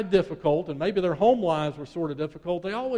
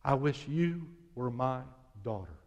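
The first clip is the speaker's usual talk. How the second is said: tender whisper; 5 semitones lower, 8 dB quieter than usual. Retold or imitated. Teacher to the little girl, a soft tender whisper. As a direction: lean in and breathe it gently. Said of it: "Missus Leonard whispered".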